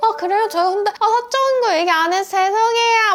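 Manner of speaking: high, ditzy, clueless airhead voice. Giving office advice, the speaker demonstrates acting oblivious in a playing-dumb airhead voice. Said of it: "대가리 꽃밥처럼 말하는 게 / 제가 성대모사였고요".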